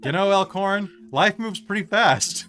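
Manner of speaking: lightly voiced film slacker, slow finish; Matthew Broderick. Game master voicing Leonin as a film star, light imitation. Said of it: "Matthew Broderick's voice comes out of your mouth".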